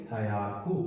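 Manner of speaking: हयाकू said slowly, syllable by syllable, as "hyaku"; teacher drills हयाकू, each syllable clear; Japanese hundred. Shown as a demonstration. Teacher modelling हयाकू for students to repeat. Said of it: "क्या बोलेंगे?".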